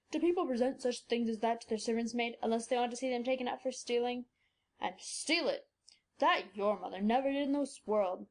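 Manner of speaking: put-on low old man's voice, protesting; an old doctor defending her mother; indignant old doctor. A narrator's reading. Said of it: "exclaimed the doctor with scornful incredulity".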